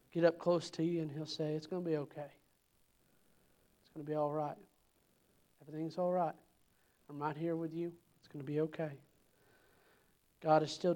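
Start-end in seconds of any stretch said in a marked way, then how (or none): 1.5-9.0 softer, tender comforting voice; God reassuring a hurting believer, soft and tender; gentle reassurance. Pretend. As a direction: speak like God comforting a child. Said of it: "soft voice sometimes that whispers".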